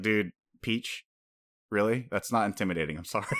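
laughing mockery of the name; lightly voiced amused jab; mock teasing. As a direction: tease the villain, half laughing. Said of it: "then it's like".

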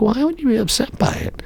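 high, puzzled question; incredulous high question. Retold or imitated. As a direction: pitch up in disbelief. Retold own incredulous question.

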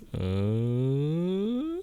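high, slow dawning realization. Retold or imitated. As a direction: draw it out in a high voice. Police voiced, slow realization.

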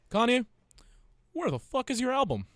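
high, loud mock yell; mock outraged shout. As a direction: call him out at full volume. Calling out a rapper in mock outrage.

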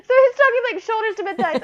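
talking through a high laugh; words bubbling out in real laughter; laughing while she explains the joke. Real, not acted. Laughs at her son's story.

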